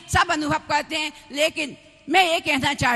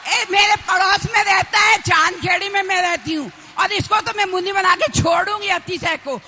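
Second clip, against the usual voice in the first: raised, spirited preaching voice; emphatic public vow; 3 semitones higher, 6 dB louder than usual. Real, not acted. Nun vowing to make her young neighbour a monk, emphatic public declaration. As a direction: declare it loudly to the whole gathering. Loud vow before the crowd.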